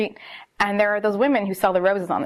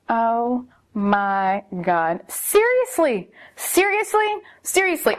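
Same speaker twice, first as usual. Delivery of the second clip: mock-stunned repeated seriously; exasperated disbelief; much slower than usual. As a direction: stretch each word in stunned disbelief. Exasperated disbelief at his text.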